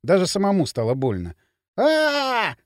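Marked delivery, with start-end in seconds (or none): 1.8-2.5 short cry of pain; pained yell. A narrator's reading. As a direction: yell out as if kicked. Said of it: "заорал Поршень". (крик боли)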